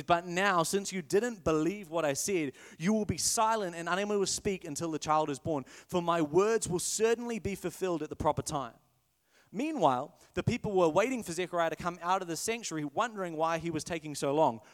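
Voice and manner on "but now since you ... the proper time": sassy angel. Retold or imitated. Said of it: "He says".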